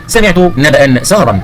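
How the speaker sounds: very slow, deliberate example sentence; model pronunciation. Shown as a demonstration. Teacher models the example for pupils, very slow reading. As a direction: space out each word, sounding the endings. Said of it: "انطق الكلمات الملونة الآتية".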